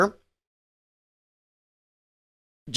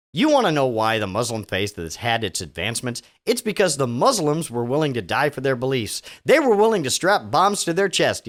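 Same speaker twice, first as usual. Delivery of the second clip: put-on low Southern preacher accent; 5 semitones lower than usual. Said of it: "I am fighting so hard not to do a Southern accent right now".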